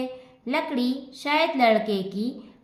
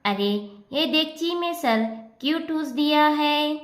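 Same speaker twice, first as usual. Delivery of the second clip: mildly exasperated, teeth gritted; a touch of grinding annoyance; through gritted teeth; 3 semitones higher than usual. Acted. Mother annoyed at the pot-headed boy, speaking through gritted teeth. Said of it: "दांत पीसती हुई".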